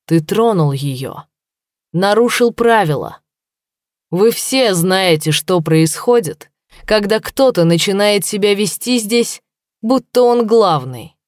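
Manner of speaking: slow menacing. Acted. Warwick threatens slowly.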